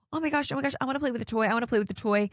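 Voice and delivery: mock childish excitement. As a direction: squeal like a kid grabbing a new toy. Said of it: "it's like the shiny toy".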